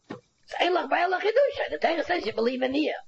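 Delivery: can't hold back a laugh while making the point. Real, not acted. Teacher to students, laughing at the chiddush.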